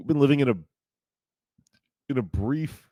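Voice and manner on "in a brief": words pushed out on a burp. Real, not acted. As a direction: talk through a beer burp. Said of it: "excuse me, I'm drinking a beer".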